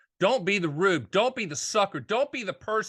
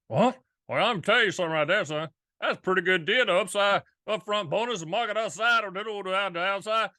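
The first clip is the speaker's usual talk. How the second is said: put-on old Charleston man, folksy Charleston accent. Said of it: "That's my Charleston voice".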